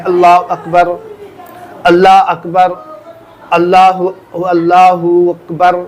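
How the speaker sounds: Allah Akbar said the wrong way, اللہ clipped to "Alla" with a strange sound; mock the sloppy اللہ اکبر, swallowing the endings; imitating a careless اللہ اکبر with the ending clipped off. Shown as a demonstration. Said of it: "یعنی عجیب طریقے سے آواز نکالتے ہیں".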